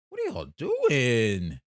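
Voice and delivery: slow, loud exasperated shout; frustrated shout. Real, not acted. Streamer yelling at the Knicks over their bad shooting, exasperated shout. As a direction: yell at the team in disbelief. Reacting to bad box score.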